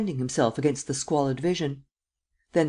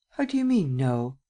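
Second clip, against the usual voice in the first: startled. Acted. Startled question.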